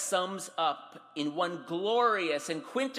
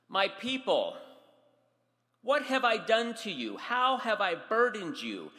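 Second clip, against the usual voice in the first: raised, pained reproach; angry prophet; 6 semitones higher, 4 dB louder than usual. Acted. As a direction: scold them like a hurt father. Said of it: "If it's not obvious by the words or my tone, Micah's upset. He's angry".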